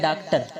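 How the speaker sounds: डॉक्टर with an open a, as "daaktar"; common mispronunciation. Shown as a demonstration. Teacher quoting how some people say doctor, common mispronunciation. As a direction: say डॉक्टर with a flattened-out "daak". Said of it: "कुछ लोग कहते हैं".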